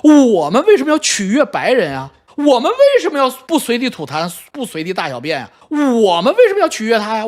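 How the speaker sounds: hammed-up defiant protest; mocked indignant nationalist. Young nationalists protesting about behaving in public, mocked indignation. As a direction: parody a self-righteous patriot, leaning on each repeated opening. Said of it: "好多傻逼小粉红说".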